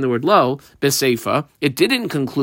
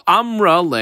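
crying; 4 semitones higher than usual. Acted. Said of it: "she was crying".

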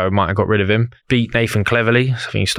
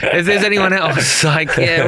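laughing; 6 semitones higher, slower than usual. Real, not acted. Laughing while naming rivals.

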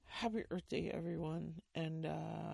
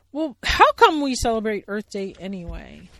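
loud curious bear; Billy Bear voice; 5 semitones higher, 16 dB louder than usual. Acted. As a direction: ask innocently. Billy asking.

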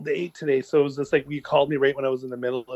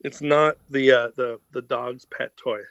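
chewing while talking. Real, not acted. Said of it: "if I sound like I'm chewing on something".

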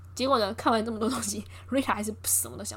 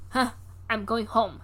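dismissive huff; slower than usual. Retold or imitated. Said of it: "他就很北宋这样子".

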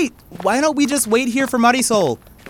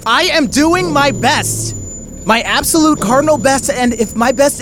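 exasperated insistence; 3 semitones higher, 4 dB louder than usual. Acted. Wes defending himself to Lily, exasperated. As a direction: insist through gritted frustration.

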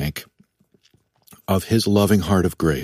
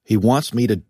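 imagined inner voice; 4 semitones higher than usual. Retold or imitated. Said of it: "I will certainly think".

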